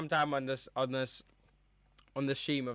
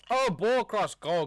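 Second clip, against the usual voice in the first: excited exclamation; 7 semitones higher, 6 dB louder than usual. Real, not acted. Near miss during live match.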